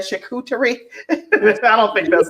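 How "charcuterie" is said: "charcuterie" with exaggerated weight on the middle; extra emphasis. Host joking about packing for the staycation, "charcuterie" with extra emphasis. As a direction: punch the "cu" in "charcuterie" for comic effect. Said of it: "with, uh, extra emphasis".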